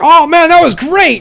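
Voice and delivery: high, loud attempt at an Aussie coach; cheerful wobbly Australian accent; Australian accent drifting toward Scottish. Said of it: "I'm trying so hard to do Australian".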